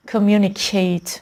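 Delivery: communicate ending in a clear "ayt"; communicate, verb ending like "eight"; full -ate ending. Shown as a demonstration. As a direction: say communicate with a full "ay" in the last syllable.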